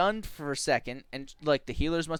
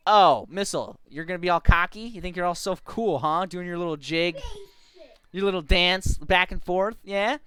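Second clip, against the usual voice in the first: lightly mocking, higher-pitched needling; mocking challenge; 3 semitones higher, 6 dB louder than usual. Teammate silently sizing up the show-off jigger, mocking challenge. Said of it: "silently in her head, she was like".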